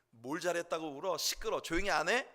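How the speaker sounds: a touch of sharp, irritated telling-off; sharp maternal scolding. Retold or imitated. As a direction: imitate a mother cutting off a crying child. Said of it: "아주 날카롭게 말씀을 하시지만".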